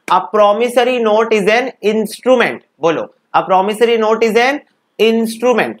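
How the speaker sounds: slow, drawn-out chant for the class to repeat; slow recitation. Shown as a demonstration. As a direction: lead the class reciting in unison, slowly. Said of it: "सबसे पहले मेरे साथ बोलोगे".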